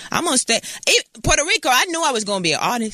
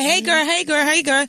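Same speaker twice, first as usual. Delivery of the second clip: put-on singsong girly greeting; 5 semitones higher than usual. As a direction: chirp it like fake-friendly girls. Mocking friendly greeting.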